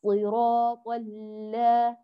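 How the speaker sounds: slow recitation, open full "la" ending ال-; fully completed lam. Shown as a demonstration. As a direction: recite ال- with a held L and complete a vowel. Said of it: "اقرأيها جيدًا متمة".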